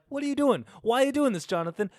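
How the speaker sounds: high, squeaky worried voice; a panicked little voice scolding Jonathan; bank account's voice. Pretend. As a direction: play a nagging bank account shrieking at him. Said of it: "so my bank account was like".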